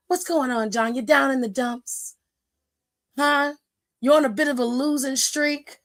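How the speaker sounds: lightly voiced coaxing persuader; imitating The Rock. The Rock luring John Cena with drinks, mild coaxing voice. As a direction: sweet-talk him over for drinks. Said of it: "He was like".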